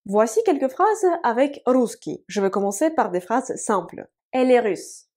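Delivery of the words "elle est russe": whispered. Shown as a demonstration. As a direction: whisper the example to the class. Teacher whispers an example sentence.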